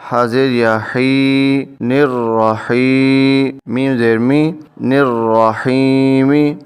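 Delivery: slowly sounding out each letter and vowel; slow spelling out. Shown as a demonstration. Teacher spelling the word out for students, slow and deliberate. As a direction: build the word syllable by syllable, slowly. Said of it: "نون کے نیچے زیر ہے تو نون کو را سے ملائیں گے".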